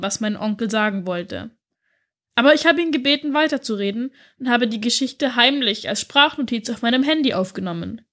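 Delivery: lightly voiced girl, earnest; a schoolgirl confiding in her teacher; a hint of a young girl speaking; girl's voice note.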